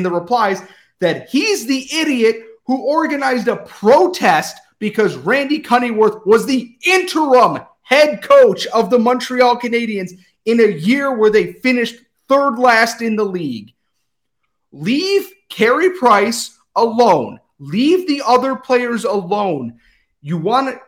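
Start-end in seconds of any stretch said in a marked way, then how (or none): 1.0-13.7 angry. Real, not acted. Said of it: "I am very angry". 14.7-19.8 angry. Real, not acted. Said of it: "I am very angry".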